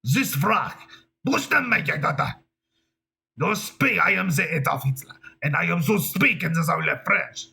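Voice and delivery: mock German that slips into French; Adolf Hitler. Retrying the dictator impression, botched German accent. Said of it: "that sounds French".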